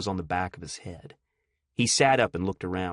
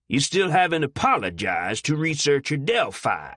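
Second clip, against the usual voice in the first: stern officer; 5 semitones higher, 4 dB louder than usual. Acted. Officer demands apology.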